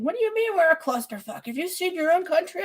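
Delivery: lightly voiced angry viewer; mock European. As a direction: play an offended European shaking a fist. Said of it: "shake their fist in my direction".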